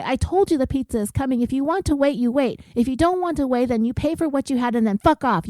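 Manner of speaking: understated imitation of an aggressive rant; retold verbal aggression. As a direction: imitate someone laying down the law. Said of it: "starts getting verbally aggressive".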